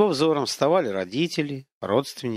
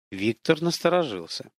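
ordinary delivery

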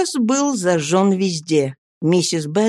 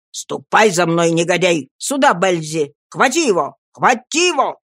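rough command. Acted. Sikes drags Oliver off and sets his dog on him, barking orders.

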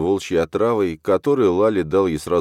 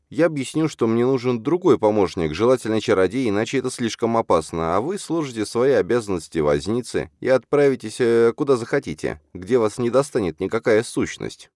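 higher-pitched, insistent heroine; earnest young woman; 7 semitones higher than usual. A narrator's reading. Alzhana releasing her driver from his duties, earnest. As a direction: make the case earnestly, voice lifted.

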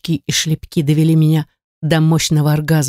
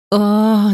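raised, held "ah" without extra volume; a contained narrated cry; understated cry; 5 semitones higher than usual. A narrator's reading. Narrator voices the overwhelmed heroine, understated cry. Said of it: "закричала от этой невыносимой".

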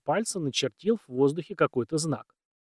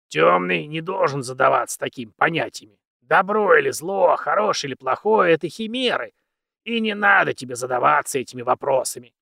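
put-on very old man; 2 semitones higher, 5 dB louder than usual. Old mentor lectures.

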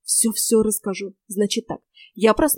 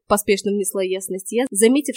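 ordinary delivery

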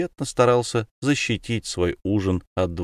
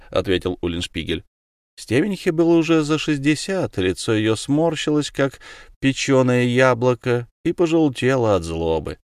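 ordinary delivery, nothing marked

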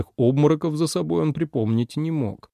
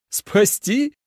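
much higher scoffing echo; mocking laugh-question; 11 semitones higher than usual. A narrator's reading. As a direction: toss the word back with a scoff. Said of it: "со смехом переспросил". (насмешливо переспрашивает, высоко)

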